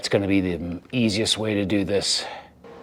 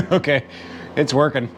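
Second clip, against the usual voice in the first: holding breath; 3 semitones higher than usual. Real, not acted. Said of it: "I'm holding my breath when I'm doing it".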